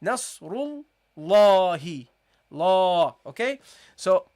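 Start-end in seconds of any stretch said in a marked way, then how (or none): 0.0-3.1 "Nasrul" then "Lahi" with a long, loud "La"; doubled lam. Shown as a demonstration. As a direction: split at the lam and swell on "La". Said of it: "And then you say".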